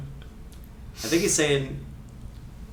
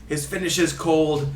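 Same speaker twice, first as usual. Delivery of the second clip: put-on Ray Hudson Scottish accent. Host reading a free kick quote, in fake Scottish accent. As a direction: fake Scottish commentator, theatrical. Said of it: "my fake Scottish accent".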